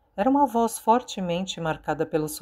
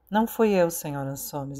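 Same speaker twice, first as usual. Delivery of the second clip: ordinary delivery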